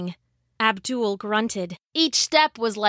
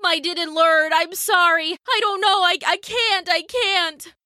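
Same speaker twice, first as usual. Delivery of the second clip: high-pitched frantic stammer; frightened boy pleading; spluttering panic; 7 semitones higher than usual. A narrator's reading. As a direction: blurt it out, climbing in pitch with panic. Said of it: "spluttering in the rain".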